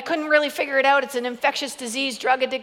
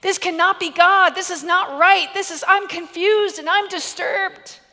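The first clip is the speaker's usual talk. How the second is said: rising, louder alarm; panicked inner voice; 5 semitones higher, 4 dB louder than usual. Retold or imitated. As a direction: insist it can't be, growing upset. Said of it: "Every maternal instinct is just like".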